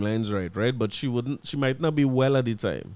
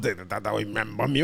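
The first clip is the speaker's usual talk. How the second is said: imitating the woman; 5 semitones lower, 4 dB quieter than usual.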